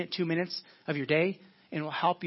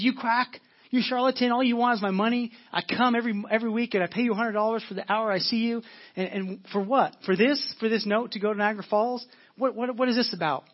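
higher, mock angry outburst at the doctor; 3 semitones higher than usual. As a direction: act out a furious patient, pitched up. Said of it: "she explodes with anger".

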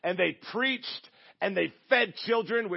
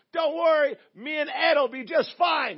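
high, loud shouted reassurance, acted; yelling over wind; 9 semitones higher, 5 dB louder than usual. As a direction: imitate a jump master hollering back over the wind. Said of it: "you gotta yell 'cause the wind's coming in".

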